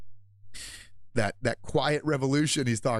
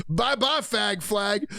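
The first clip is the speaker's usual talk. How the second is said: gloating taunt; 5 semitones higher, much slower than usual. Real, not acted. Streamer gloating over flag ban, high taunting. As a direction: wave them off with glee.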